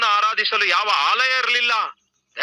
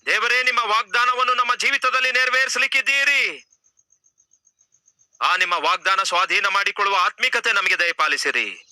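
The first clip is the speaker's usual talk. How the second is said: earnest pleading prayer over music; fervent prayer. Acted. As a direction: pray aloud for the congregation.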